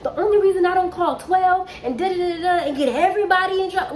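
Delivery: high, sing-song mock threat; mocking her threat. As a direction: parody her yelling in a lilting voice. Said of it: "So she was like".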